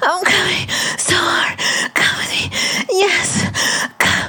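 high, loud breathless cries. Acted. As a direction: let it out at full voice. Climax cries.

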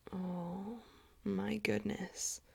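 normal talking voice

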